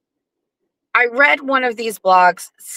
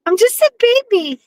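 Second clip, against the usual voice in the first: put-on much higher, squeaky baby voice; cutesy baby voice. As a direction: squeak it out like a toddler. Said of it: "You can't talk in a baby language".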